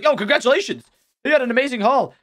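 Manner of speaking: congratulating zombie. Acted. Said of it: "there's a zombie coming over saying hello".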